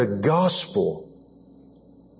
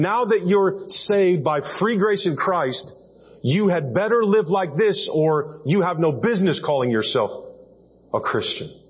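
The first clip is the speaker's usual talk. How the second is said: higher, preachy warning, a hint of a scolding pastor; mock stern preacher; 4 semitones higher than usual. Pastor scolding new believers, lightly mocking stern warning. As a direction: lay down the law like a pushy pastor. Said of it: "and then you lay it on them".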